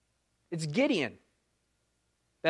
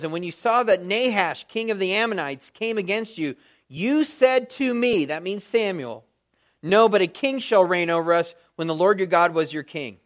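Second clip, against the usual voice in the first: scripture reading. Acted. Reads scripture aloud.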